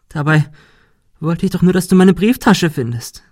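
a beaten creature reproaching Ben; hurt goat creature. Acted. Monika whining.

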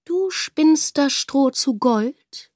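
langsam, hoch, ungläubig, Betonung auf „Du“; zweifelnder König. Acted. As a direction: der König prüft misstrauisch. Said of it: "fragte der König". (König fragt die Tochter, zweifelnd)

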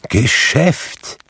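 cried out. A narrator's reading. Ghost rejects Scrooge's praise, crying out. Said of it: "rief das Gespenst".

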